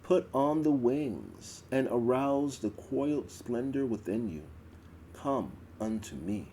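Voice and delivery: ritual recitation. Acted. Priestess reciting the goddess's call to worshippers, solemn. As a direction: intone it like a priestess at the altar.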